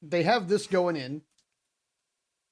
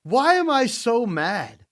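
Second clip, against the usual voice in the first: higher, slow mock wrestler self-pep; mock Drew McIntyre; 8 semitones higher, 5 dB louder, slower than usual. Co-host retelling Drew McIntyre's promo, mock-ranting higher. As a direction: imitate a wrestler venting, slowly. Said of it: "he's like".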